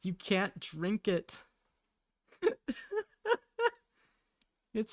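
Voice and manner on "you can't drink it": slow, raised mock scolding; exasperated scolding. Owner refusing cats the cereal milk, exasperated scolding. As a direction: drag the words out in exasperation.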